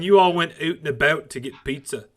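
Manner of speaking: a weak, hammed-up Canadian accent; a bad attempt at a Canadian accent; the speaker's put-on Canadian accent. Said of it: "that was a really bad Canadian accent".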